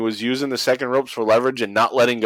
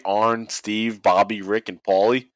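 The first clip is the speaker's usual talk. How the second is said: normal talking voice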